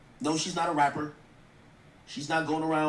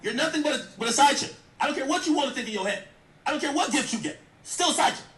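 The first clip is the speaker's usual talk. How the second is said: scolding; 6 semitones higher than usual. Real, not acted. Host scolding Young Miami directly, raised voice. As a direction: tell her off straight.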